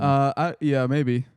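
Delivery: unsure, halting agreement; stall, then half-heartedly agree; real hesitation before a noncommittal yes; hesitant. Real, not acted. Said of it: "you sound hesitant".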